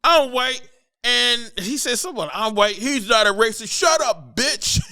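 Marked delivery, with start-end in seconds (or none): 0.0-0.6 high, loud mock shout; hammed-up heckler's declaration; imitated audience yell. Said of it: "this white guy yelled". 2.0-4.8 high-pitched mock shouting; hammed-up shouting down a heckler; imitated audience yell. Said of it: "this white guy yelled".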